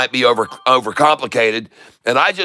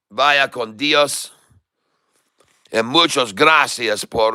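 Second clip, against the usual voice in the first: foul gringo Spanish; 3 semitones lower than usual. Acted. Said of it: "the gringo loco attempting to speak very foul Spanish".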